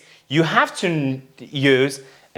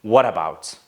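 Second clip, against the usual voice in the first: American "What about", open unrounded vowel; American-style "What about" as students say it; American accent; 5 semitones lower than usual. Shown as a demonstration. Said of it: "those students that are preferring American accent".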